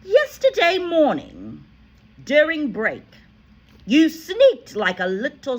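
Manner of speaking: shouting. A narrator's reading. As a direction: rage at him about the cake. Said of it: "the Trunchbull shouted".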